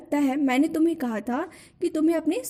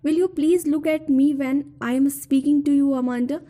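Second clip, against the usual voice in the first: slow, deliberate poem reading, a little louder; poem recitation; 4 dB louder, much slower than usual. Acted. Teacher reciting the mother's nagging to students, slow recitation. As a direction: read each line out slowly, as if to a class.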